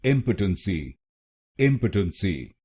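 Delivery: इम्पोटेंसी as IM-puh-tun-see; correct pronunciation. Shown as a demonstration. Teacher joining the syllables together, correctly pronounced. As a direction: say इम्पोटेंसी with schwas in the middle. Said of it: "तो बनेगा".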